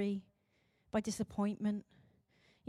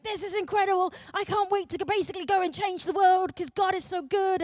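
higher, louder excited gushing; fired up; 5 semitones higher, 5 dB louder than usual. Retold or imitated. Teenager home from festival, fired up and gushing. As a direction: gush with youthful zeal, re-enacted. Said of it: "I'd be so fired up and be like".

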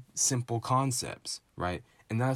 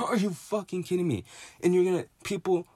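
much higher, fast, through a laugh; laughing disbelief; 9 semitones higher, faster than usual. Real, not acted. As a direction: laugh it out at how absurd this is. Repeats the line, laughing in disbelief.

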